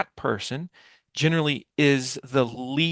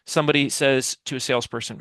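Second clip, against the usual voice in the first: ordinary delivery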